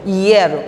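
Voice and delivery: "Hierro" starting with a single ye glide; one syllable. Shown as a demonstration. Teacher correcting pupils, "Hierro" with ye as one syllable. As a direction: run I into E in "Hierro". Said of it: "uma sílaba só".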